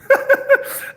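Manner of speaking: high burst of laughter; loud, breathy laugh. Real, not acted. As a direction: crack up at your own silly accent. Laughs at own accent impression.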